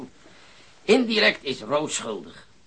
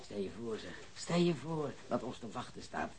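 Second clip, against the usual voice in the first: hushed relish; 2 semitones lower, 14 dB quieter than usual. Acted. Savoring thought of catching robbers.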